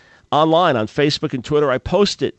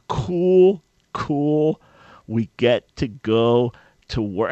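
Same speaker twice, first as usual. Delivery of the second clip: mock excited; much slower than usual. Mocking the engineers' attitude.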